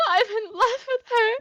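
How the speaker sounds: high, loud lovesick wail through tears; lovestruck guard crying. Acted. Lanky guard runs off crying, wailing his love. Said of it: "and he goes".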